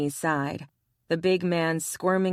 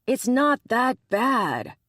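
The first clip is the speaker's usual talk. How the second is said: higher, louder, slow, stretched-out protest; exasperated insistence; 8 semitones higher, 4 dB louder, slower than usual. Acted. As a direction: plead it one last time, fed up. Ryan insists a third time.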